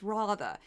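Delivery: "Rather" said with a broad "ah"; affected pronunciation. Retold or imitated. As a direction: mimic a mannered "Rather", as "rah-thuh". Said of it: "He says".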